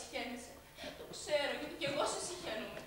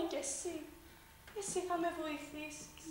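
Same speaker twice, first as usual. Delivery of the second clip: softer, intimate turn to the sister; sudden quiet; 2 semitones higher, 5 dB quieter than usual. Acted. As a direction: drop the voice to draw her close. Drops from rant to quiet. (χαμηλόφωνα, οικεία)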